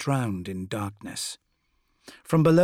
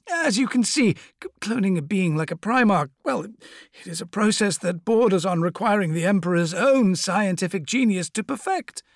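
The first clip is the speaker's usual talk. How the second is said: high, oily schemer's voice; sly apothecary voice; 7 semitones higher, 4 dB louder than usual. Acted. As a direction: purr it like a sinister surgeon. Fabius explains the cloning.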